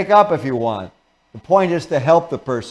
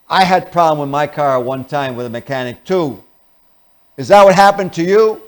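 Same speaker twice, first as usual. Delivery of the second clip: louder, griping along about the mechanic; mock antagonistic; 5 dB louder than usual. Shown as a demonstration. To the angry car owner, a griping mock grumble. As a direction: share the gripe, half-acted annoyance. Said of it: "in an antagonistic tone of voice".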